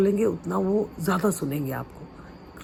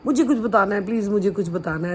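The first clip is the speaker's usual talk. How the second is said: put-on playful childish eagerness, quick; a light hint of a child pleading; childlike; faster than usual. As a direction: act like an eager kid begging to share. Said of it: "ऐसे बचपना करके ना".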